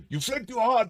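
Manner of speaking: high loud laugh into words. Real, not acted. GM laughing at a flipped die, high and laughing. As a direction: laugh through the line.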